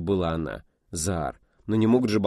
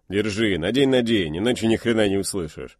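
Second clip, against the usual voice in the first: loud urging; 5 dB louder than usual. Acted. Pilot hands over headset.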